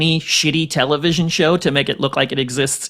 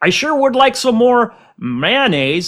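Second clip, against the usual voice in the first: over-the-top put-on American accent, sing-song; 9 semitones higher than usual. On a podcast, a guest demonstrates their usual impression in an exaggerated american accent. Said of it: "My American impression would always be like".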